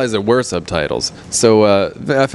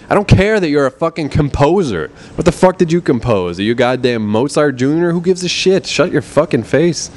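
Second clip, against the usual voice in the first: higher, fed-up ranting; exasperated rant; 6 semitones higher than usual. Real, not acted. Projectionist venting at a pompous composer, exasperated. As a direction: tear into the guy, fed up.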